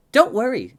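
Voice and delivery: high, loud little trickster voice; giggly twin girl. A narrator's reading. Giggling twin Pip reassures the child.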